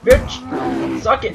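loud angry yell; cursing at a bear. Real, not acted. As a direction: snarl curses mid-fight. Hitting the bear in fight.

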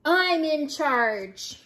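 slow, mildly snarled claim of command; snarling Big Bark. Acted. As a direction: assert authority, drawing it out. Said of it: "snarled Big Bark".

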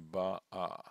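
"ba'a" with the last syllable stressed; stress on final A. Shown as a demonstration. Teacher reading an Esther example, "ba'a" stressed on the final a. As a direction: separate "ba'a" and land on the final a. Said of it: "the accent again must be on the a".

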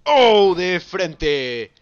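excited yell. Real, not acted. Reacting to a big hit.

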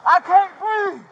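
high, loud, strained cry for air; plead, panicked and breathless; desperate gasping plea. Real, not acted. Suspect pinned down in pain.

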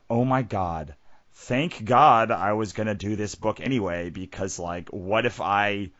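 retold panic, mildly acted; freaking out. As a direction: relive freaking out, lightly. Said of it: "I remember freaking out".

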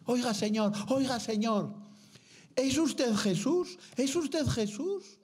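put-on high, slow girl's voice calling to a man; little girl calling out. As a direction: call after him like a small girl, then ask in wonder. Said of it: "le gritó la niña".

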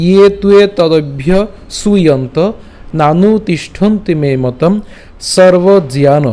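slow, measured Sanskrit verse recitation; শ্লোক recitation. Shown as a demonstration. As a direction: recite each quarter slowly, drawing out long vowels. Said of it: "উচ্চারণটা কেমন হবে". (ধীরে টেনে টেনে শ্লোক পাঠ)

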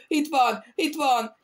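high-pitched frightened outcry; alarmed cry. A narrator's reading. Delirious captain spots the devil at the door, crying out. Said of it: "kiáltotta".

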